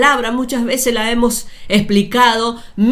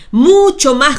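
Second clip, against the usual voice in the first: "mucho más" hit louder and higher; stress on mucho más; 4 semitones higher, 5 dB louder than usual. Shown as a demonstration. Preacher to congregation, "mucho más" hit loud and high. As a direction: lean hard on "mucho más". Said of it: "Mucho más fuerte clamaba".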